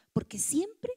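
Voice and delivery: breathy whisper; whispered aside. Real, not acted. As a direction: drop to a whisper. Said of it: "whispered aside".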